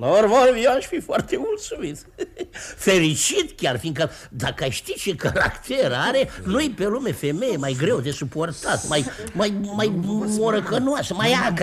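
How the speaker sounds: loud, heated venting; too loud. Acted. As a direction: complain openly, careless of who hears. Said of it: "Mai încet, vă rog, mai încet".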